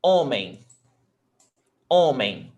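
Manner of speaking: "Homem" with a strong first syllable, falling away; penultimate stress. Shown as a demonstration. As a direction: punch the "Ho" of "Homem". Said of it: "the stressed is not the last one".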